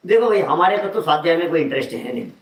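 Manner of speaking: mock sweet and fast; sweet-talking. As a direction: breezily brush off study. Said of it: "कितना प्यार से बोल रहा है".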